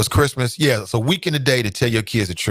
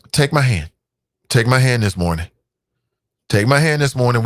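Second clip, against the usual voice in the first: preacher call. Acted. Preacher leading congregation.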